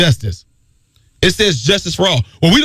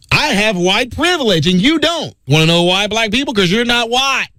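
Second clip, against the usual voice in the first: mock racist taunt; 3 semitones higher than usual. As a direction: sneer it out like a gloating bigot. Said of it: "Now, see, I said that way".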